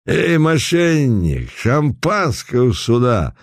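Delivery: put-on high, slow drunken bellow; drunken shout. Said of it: "громко кричал Путилин".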